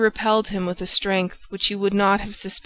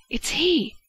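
much higher, gasped recognition; startled exclamation; 8 semitones higher than usual. A narrator's reading. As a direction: cry out as you spot the masked man. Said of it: "he exclaimed".

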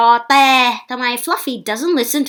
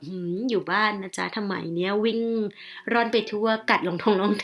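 quick, soft aside to oneself; lightly acted private doubt, quiet and fast; acted inner thought; 5 dB quieter, faster than usual. Dog owner privately doubting the vet's praise, quick soft aside. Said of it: "แต่ในใจนี่แบบ".

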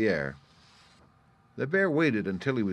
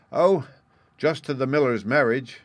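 airy, higher-pitched offhand reply; careless; 5 semitones higher, 6 dB louder than usual. A narrator's reading. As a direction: toss it off as if it hardly matters. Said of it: "answered the bear carelessly".

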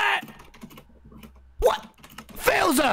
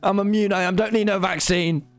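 put-on northern English accent. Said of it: "in this accent now".

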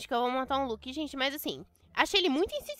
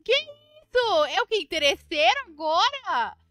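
shocked indignation; 6 semitones higher, 6 dB louder than usual. Real, not acted. Outraged at the player.

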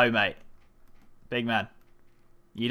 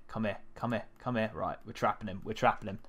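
ordinary talk

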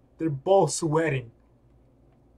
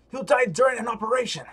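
alarmed protest; 6 semitones higher, 5 dB louder, faster than usual. Acted. Voicing game character's alarmed protest.

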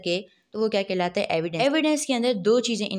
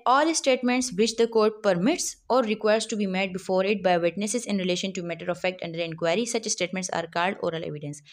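slow dictation; much slower than usual. Acted. Reads statute definition aloud.

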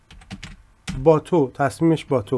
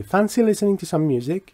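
slow casual question; 4 semitones higher, much slower than usual. Shown as a demonstration. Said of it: "این دیوش هم حذف".

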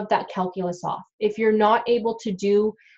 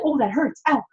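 a mildly raised, whiny patient's complaint; mock pained patient; 4 semitones higher than usual. Hygienist imitating a patient who keeps complaining in mock pain. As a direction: play the patient squirming in the chair. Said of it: "if they're always like".

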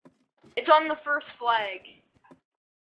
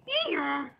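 donkey bray imitation; 3 semitones higher than usual. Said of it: "making, like, noises like".

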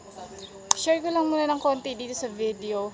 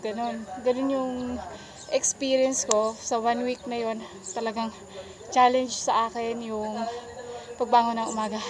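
panting after push-ups; out of breath. Real, not acted. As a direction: talk while catching your breath. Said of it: "sinihingal pa ako katapos ko lang mag, mag-push up".

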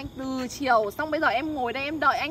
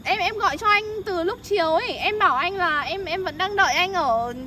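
higher-pitched, aggrieved phone complaint; real complaint; 4 semitones higher, 4 dB louder than usual. Real, not acted. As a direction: complain to him about the long wait. Waiting since afternoon, complains on phone. (giọng trách móc, cao hơn bình thường)

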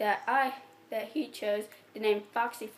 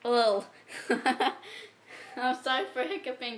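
laughing apology; 2 semitones higher than usual. Real, not acted. Laughing through hiccups.

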